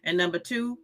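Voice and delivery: normal talking voice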